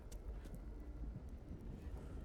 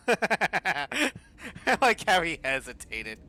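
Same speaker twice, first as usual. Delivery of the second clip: loud; 5 semitones higher, 12 dB louder, slower than usual. Real, not acted. Player laughing at character.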